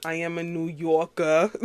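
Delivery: lightly put-on New York accent, dropping the final R of "Yorker". Shown as a demonstration. Podcaster assuring listeners where she's from, playful New York accent.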